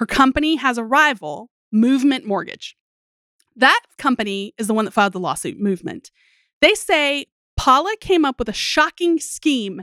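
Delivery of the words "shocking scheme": "shocking scheme" set off with audible scare quotes. Reporting a lawsuit's claim, saying 'shocking scheme' in audible scare quotes. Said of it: "That shocking scheme was in quotes, if you couldn't hear that in my voice".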